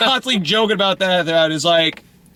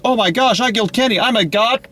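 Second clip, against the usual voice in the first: put-on excited kid; 5 semitones higher than usual. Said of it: "I think I said".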